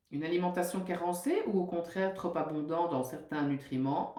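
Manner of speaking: steady, measured reading of a book passage; reading aloud. Acted. Nutritionist reads a book chapter to her listeners, measured and even. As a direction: read the text out evenly, like a lesson.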